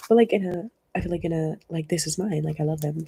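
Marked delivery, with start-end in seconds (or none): 1.9-3.1 softer, affectionate claim; loving attachment. Acted. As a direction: claim them fondly and quietly. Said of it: "Not in an unhealthy way".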